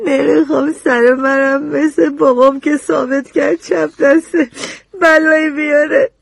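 crying fearful plea; tearful. Acted. Frightened girl on the stand, crying as she speaks. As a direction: voice breaking with fear.

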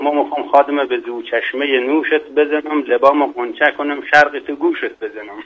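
joking couplet in a Mashhadi accent. Shown as a demonstration. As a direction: recite verse in Mashhadi dialect. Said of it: "با لهجهٔ شیرین مشهدی".

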